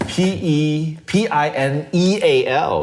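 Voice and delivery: high pitched spelling through laughter; still laughing. Real, not acted. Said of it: "Let me see".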